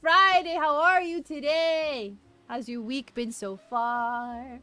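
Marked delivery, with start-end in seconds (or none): 0.0-2.1 high, loud squeal of delight; excited greeting. Real, not acted. Streamer greeting a chatter by name, excited squeal.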